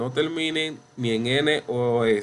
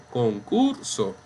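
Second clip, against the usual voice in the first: concurso said con-CUR-so, CUR held; stress on middle syllable; slower than usual. Shown as a demonstration. Teacher correcting the take, concurso stressed con-CUR-so. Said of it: "aquí tenemos la sílaba".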